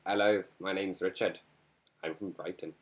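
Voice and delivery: a light mock British accent; a hint of a British accent, introducing yourself. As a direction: play a bloke from Brighton in a British accent. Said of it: "Let's go in a British accent".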